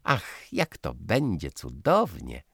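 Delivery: put-on bright, high girlish voice full of delight; excited young girl. Daughter announcing the Cannes trip, high and delighted. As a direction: gush about the trip like a thrilled girl.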